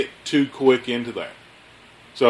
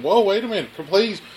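high-pitched imitation of pleading; retold begging; 8 semitones higher than usual. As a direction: act out your own groveling. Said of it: "I begged and groveled and said".

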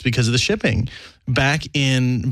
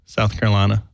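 Southern accent; 4 semitones lower than usual. Shown as a demonstration. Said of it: "fall into the Southern accent".

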